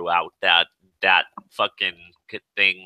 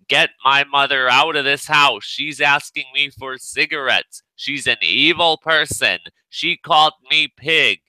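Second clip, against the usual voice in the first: mock screaming; 6 semitones higher than usual. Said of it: "screaming to all the neighbors".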